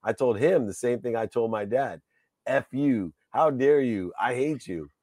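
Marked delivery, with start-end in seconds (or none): 2.5-4.9 higher, indignant retorts, re-enacted; short bursts of retold indignation; retold angry outburst. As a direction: act out a heated telling-off. Retold quarrel with best friend.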